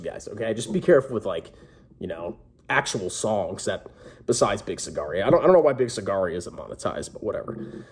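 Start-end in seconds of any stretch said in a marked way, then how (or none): 2.0-7.8 out of breath. Real, not acted. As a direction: talk while short of breath. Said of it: "Whew, I'm out of breath".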